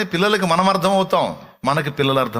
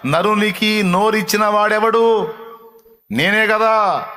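proclaiming; 6 semitones higher, 3 dB louder, slower than usual. Retold or imitated. God's words quoted to Moses.

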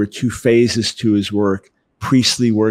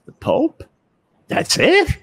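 scoffing Jewish dad; slower than usual. Retold or imitated. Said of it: "the Jewish dad says".

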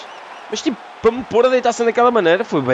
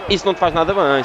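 ordinary talk, nothing marked

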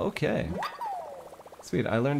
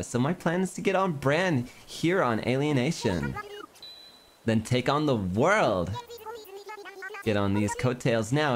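lightly voiced Valley girl; mild Valley-girl pop-star wannabe. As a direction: read it with a hint of Valley girl. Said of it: "gotta talk like a Valley girl".

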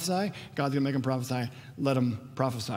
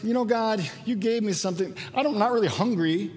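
arrogant ingratitude; 5 semitones higher than usual. Retold or imitated. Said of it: "There's this arrogance like".

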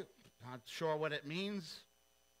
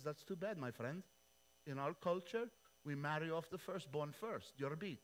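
smug shrug; 4 dB quieter than usual. Retold or imitated. Laban answers smugly.

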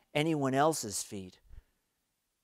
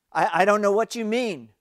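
higher, louder stammering deflection; flustered stammer; 8 semitones higher, 8 dB louder than usual. A narrator's reading. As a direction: trip over the words in embarrassment. Flustered denial to Jesus.

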